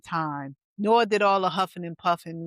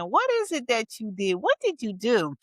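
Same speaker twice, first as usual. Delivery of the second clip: retold prying question; 4 semitones higher than usual. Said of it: "she was really saying".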